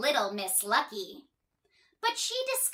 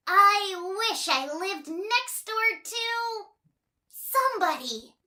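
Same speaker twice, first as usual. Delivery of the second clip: wishing out loud; 8 semitones higher, 3 dB louder than usual. Acted. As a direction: speak the wish aloud to the well. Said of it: "she said out loud".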